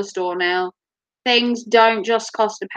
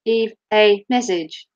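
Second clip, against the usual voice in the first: lightly imitated robot answering machine; robotic answerphone lady; 2 semitones lower than usual. Answerphone lady telling callers to leave a message, lightly robotic. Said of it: "My answer phone lady's very robot-like".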